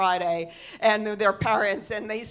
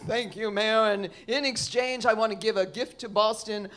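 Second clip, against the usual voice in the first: lightly voiced Santa making a proclamation; slow right down on the gift, grandly; a hint of ceremonial Santa; 2 semitones lower than usual. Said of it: "And he says".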